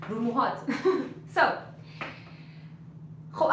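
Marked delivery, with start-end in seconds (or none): 0.6-1.3 short chuckle; brief laugh at your own joke. Real, not acted.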